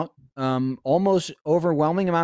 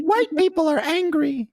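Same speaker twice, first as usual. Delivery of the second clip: squeaky high quoting voice; high-pitched imitation; 10 semitones higher than usual. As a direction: pitch way up to mimic her. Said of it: "Fiona was like".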